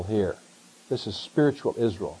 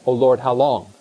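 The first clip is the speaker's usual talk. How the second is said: rising frustration, louder and pleading; mock despairing cry to the Lord; exasperated sigh of a bored churchgoer; exasperated lament; 3 semitones higher, 4 dB louder than usual. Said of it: "I said".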